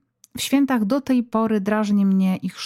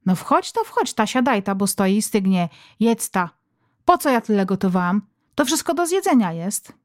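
lightly voiced mother pushing food; mother ordering family to sit and eat; bossy mother. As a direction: urge them to eat. Mother serving supper.

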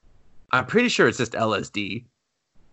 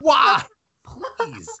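exasperated pleading; 12 semitones higher than usual. Retold or imitated. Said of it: "I was like".

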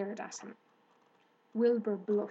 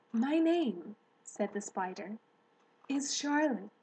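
Charlotte speaking. Acted. Charlotte's voice held.

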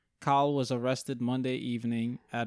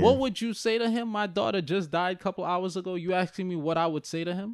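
incredulous grieving mom; 4 semitones higher than usual. Retold or imitated. Mom answers reporter, retold.

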